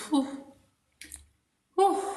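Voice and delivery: short puff of relief-seeking breath; weary exhale. Real, not acted. Venting to co-host about parenting, weary exhale. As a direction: blow out a heavy "whew".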